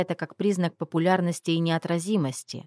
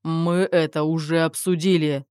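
growled. Acted. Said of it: "прорычал Руслан".

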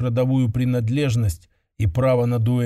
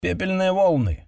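loud reply; 6 semitones higher than usual. Acted. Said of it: "громко ответила Кара".

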